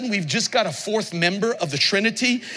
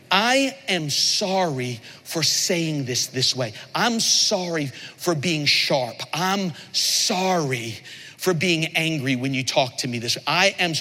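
slow, humble naming of the wrong; sincere apology; 5 semitones lower, slower than usual. Shown as a demonstration. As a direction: own it slowly, word by word. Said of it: "It's inserting what you did".

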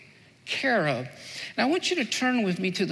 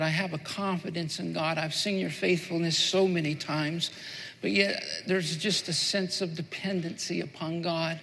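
prayer; 3 semitones lower than usual. Acted. Pastor praying aloud to God.

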